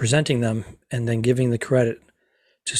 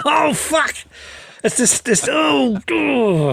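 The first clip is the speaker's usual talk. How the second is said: laughing at blown cue; 12 semitones higher, much slower than usual. Real, not acted.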